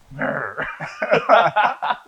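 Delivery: loud, high mock wail breaking into laughter; hammed-up crying sound, then laugh; mock crying noise. Recalling crying at his scene partner, mock wail.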